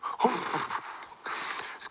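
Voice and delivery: breathy scoffing harumph; mock harumph. The elephant scoffing at the squirrel with a breathy harumph. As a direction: snort it off dismissively. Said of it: "elephant let out a great harumph".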